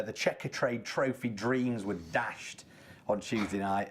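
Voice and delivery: slow, mock-dramatic sarcasm; sarcastic. Real, not acted. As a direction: announce it with drawn-out, sarcastic gravity. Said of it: "sense the sarcasm in my voice".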